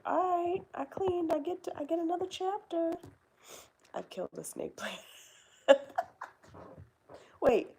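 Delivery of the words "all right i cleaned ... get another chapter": mock excited reader. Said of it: "You're like".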